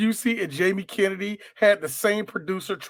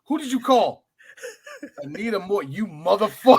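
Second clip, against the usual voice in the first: laughing movie quote; 3 dB louder than usual. Retold or imitated. Acting out movie scene.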